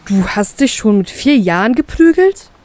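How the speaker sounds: mildly disbelieving question; a touch of astonishment; stunned. Acted. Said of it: "fragt er mich fassungslos".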